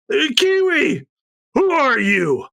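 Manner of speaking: high startled call; startled sister. Acted. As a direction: cry out at the intruder.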